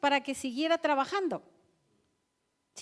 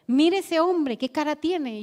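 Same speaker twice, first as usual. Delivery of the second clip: louder, higher, urgently pointing him out; anxious insistence; 3 semitones higher, 10 dB louder, slower than usual. Retold or imitated. Urgent fearful sister. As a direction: sister insisting in fear at the taxi stand, loud and anxious.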